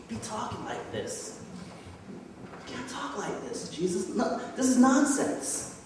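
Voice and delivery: mildly acted scolding in disbelief; indignant rebuke. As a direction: plead against it, then rise on "nonsense". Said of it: "He rebukes Jesus".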